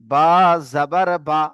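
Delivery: name the letter, then a quick final "বা"; short unstretched vowel. Shown as a demonstration. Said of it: "একে তাড়াতাড়ি পড়তে হবে". (শেষের "বা" তাড়াতাড়ি, টান ছাড়া)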